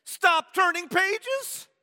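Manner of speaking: high, slow, drawn-out monster plea; Grover pleading. Retold or imitated. Grover pleading with the reader to stop, slow high plea. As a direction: beg them to stop, slowly.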